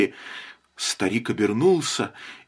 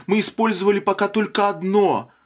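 urgent; 8 semitones higher than usual. A narrator's reading. Wife urging, high voice.

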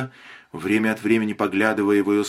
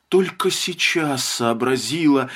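ordinary delivery

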